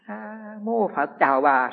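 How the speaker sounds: slow, measured monk's greeting; calm polite greeting. Retold or imitated. Monk calmly greets the woman instead of a hug. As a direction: gently fend her off with a slow blessing.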